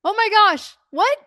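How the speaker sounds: a high, loud squeal of glee at a caller; imitating her own overexcited phone reaction; giddy disbelief. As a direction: shriek it like you can't believe your luck. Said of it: "Of course, I didn't say that".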